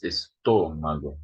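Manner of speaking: "estômago" stressed on the second syllable, TÔ; correct stress. Shown as a demonstration. Teacher modelling the accented syllable for students, correct stress. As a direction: lean on TÔ in "estômago". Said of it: "There's an accent there".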